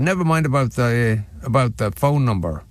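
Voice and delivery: put-on a light Irish accent, half-hearted; a quick sketch of an Irish accent; Bob Geldof Irish accent. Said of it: "I just went into the accent".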